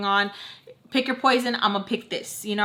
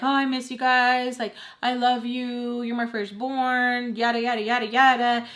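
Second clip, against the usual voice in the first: mock loving mother; 3 semitones higher than usual. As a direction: mimic mom's gushing, trailing into dismissive yadas. Mimicking mother's mind-game affection.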